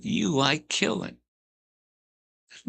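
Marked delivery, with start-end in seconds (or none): 0.1-1.2 high, slow, insinuating voice; imitating Pee Wee. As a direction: draw it out high and creepy. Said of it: "He said".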